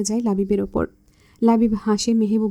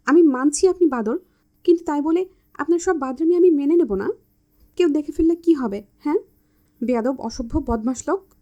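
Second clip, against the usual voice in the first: indignant scolding; 4 semitones higher than usual. Acted. Mehbuba scolds Labib for grabbing her, outraged. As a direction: push him off with mock fury.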